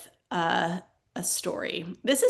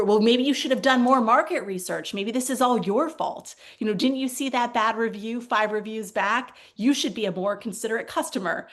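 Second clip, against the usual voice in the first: lightly acted scolding, emphatic start; mock blaming agent; 4 dB louder than usual. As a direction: put the blame on the customer, playfully.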